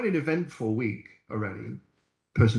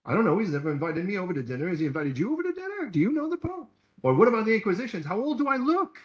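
fast, higher, playful joking; joking comeback; 6 semitones higher, faster than usual. Retold or imitated. Preacher joking back to a skeptic about the Pope, fast and playful. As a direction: tease the skeptic lightly. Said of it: "I'm like".

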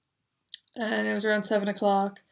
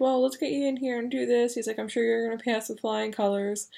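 cheerful; 3 semitones higher than usual. Retold or imitated. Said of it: "he was really cheerful".

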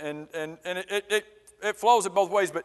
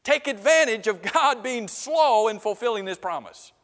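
raised, insistent rebuke; Peter confronting mockers; 4 semitones higher than usual. Peter turns the finger at the mockers, confronting. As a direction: turn on the scoffers, pitch lifted. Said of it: "Peter turns the finger at, at these mockers".

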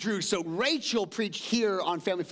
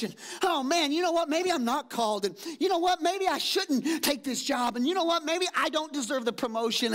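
higher, worried inner voice; anxious self-doubt; 6 semitones higher than usual. Retold or imitated. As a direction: believer doubting their calling, pitched up. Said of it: "you're going".

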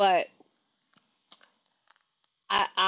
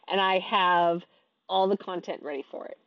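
talking through a yawn; words stretched by a yawn. Real, not acted. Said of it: "Excuse my yawns".

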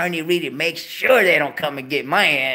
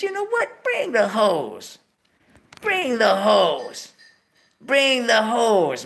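high, then slow emphatic repeat; deciding to become a pimp, hyped; excited decision; 5 semitones higher, slower than usual. Retold or imitated. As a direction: savour each bring.

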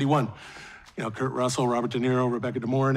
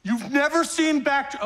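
higher, drawn-out disbelief; incredulous; 7 semitones higher, slower than usual. Acted. Fan to someone who never saw Backdraft, incredulous. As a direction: stretch it out in disbelief. Stunned she hasn't seen it.

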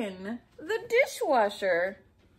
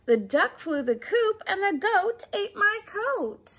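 higher and louder exasperated lament; flustered woman; 8 semitones higher, 6 dB louder than usual. Acted. The shopper complaining about her goat, exasperated. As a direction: wail it like everything's going wrong.

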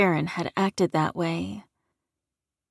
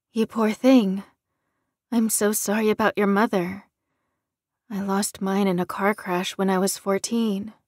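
touch of sadness. Acted. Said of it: "a note of sadness in her voice".

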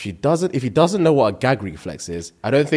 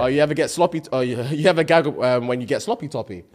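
mock Cockney lad; faster than usual. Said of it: "as, like, a Cockney lad".

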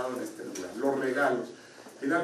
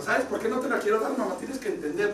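higher-pitched pleading child, lightly imitated; mock-tearful child's protest; retold tearful boy; 6 semitones higher than usual. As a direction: plead like an upset little boy, without real sobs. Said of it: "Llorando Jacob le dijo".

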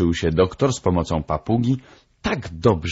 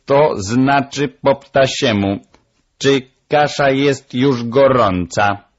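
high, loud, slow parrot voice; drawn-out squawky parrot character; explaining parrot; 7 semitones higher, 5 dB louder than usual. Acted. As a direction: translate deliberately, like a proud bird. Parrot translates her squeaks.

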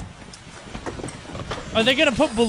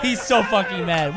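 ordinary delivery

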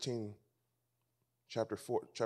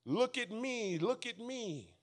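lightly voiced braggart, higher and softer; mock show-off; 10 semitones higher, 4 dB quieter, slower than usual. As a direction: mimic someone preening for attention. Mocking show-offs seeking attention.

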